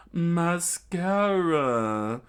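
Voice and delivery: loud, very drawn-out cry; high, flourished battle cry; attack call. Acted. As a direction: stretch the move name theatrically. Villain calls out attack name.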